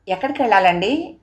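a politely asked question; Telugu: వినయంగా అడగటం. Acted. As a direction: ask the lady gently where to go. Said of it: "వినయంగా".

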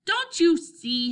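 high, loud, drawn-out plea; excited. A narrator's reading. Henry tries to convince doubtful Scooter, excited. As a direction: stretch it out, urging them to understand. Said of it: "Henry was growing more excited".

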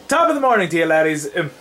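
half-hearted impression of a chirpy Irish intro; Jack impression attempt. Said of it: "I can't do Jack's voice".

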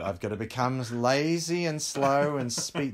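drawn-out Australian twang; lazy Australian drawl; slow Aussie voice. Retold or imitated. Boy deciding to sound Australian, slow Aussie voice. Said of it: "I thought".

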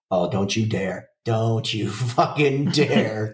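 slow, half-laughing don't you dare; laughing plea. Retold or imitated. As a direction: drag it out, pleading through a laugh. Neighbor's voice cracks, retold plea.

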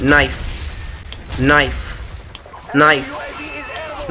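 soft, breathy whisper of one word. Real, not acted. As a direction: whisper it while sneaking up. Sneaking up to knife someone.

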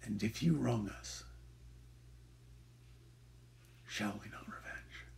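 fading into a whisper; menacing whisper. Acted. Scene: Shylock threatens revenge in a fading whisper. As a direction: let the threat sink into a whisper.

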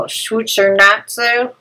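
Schweizernatze said slowly, fumbled Swedish sounds; butchered pronunciation. Real, not acted. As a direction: stumble through Schweizernatze. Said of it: "I butchered that".

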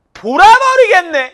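slow, high, shouted "going crazy"; fed-up outburst. Retold or imitated. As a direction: explode like you can't take it anymore. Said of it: "우리가 정말 열받을 때 우리 어떤 말 쓰지?".

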